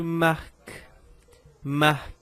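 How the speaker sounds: "Marc" closed on an audible k; C final prononcé. Shown as a demonstration. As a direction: sound the k at the end of "Marc". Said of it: "não digo mar, mas sim".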